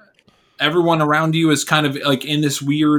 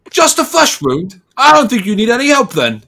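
dismissive guard; 9 semitones higher, 5 dB louder than usual. Acted. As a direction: throw his own words back at him and shrug. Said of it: "And he's like".

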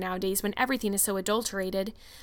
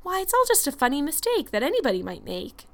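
higher, lilting reassurance; reassuring; 5 semitones higher than usual. A narrator's reading. Missus Allen calls it a funny mistake, reassuring. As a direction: make light of it to console her.

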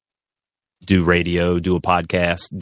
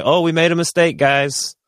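mock apology; 8 semitones higher than usual. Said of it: "to be like".

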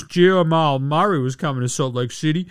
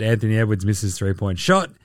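lower, resigned read of the same line; weary deadpan; 5 semitones lower than usual. Shown as a demonstration. Reading yet another Edwards miss, deadpan and resigned. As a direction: sigh it out like the tenth miss. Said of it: "And you guessed it".

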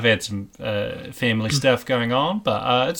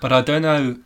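stuck in a mock South African accent; 2 semitones higher than usual. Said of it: "I'm just stuck in South African".

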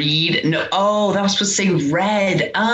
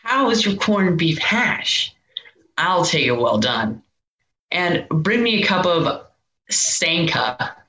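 slow, smooth flirty delivery; sultry diner flirt; slower than usual. Shown as a demonstration. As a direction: sell the line with a flirt. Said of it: "show Gianni how to do it".

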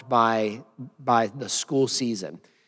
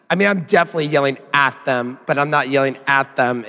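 "at" hit hard each time; emphatic, hair-splitting weight on "at"; stress on AT; 3 dB louder than usual. Real, not acted. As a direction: punch "at" in a quick self-correction. Jokingly qualifies yelling at them.

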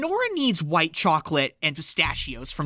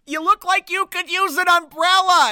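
imitating Santa; 10 semitones higher, 5 dB louder than usual. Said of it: "He's like".

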